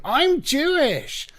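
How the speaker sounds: shrieked very high and drawn out, mocking; mock a woman screeching at the crowd; high, slow mocking screech; screeching harpy. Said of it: "fat, screeching harpy running around going".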